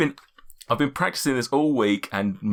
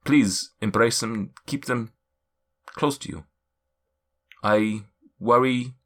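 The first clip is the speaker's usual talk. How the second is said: mystic figure's voice. Acted. Seer addressing each adventurer in turn, solemn. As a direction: speak like an ancient seer.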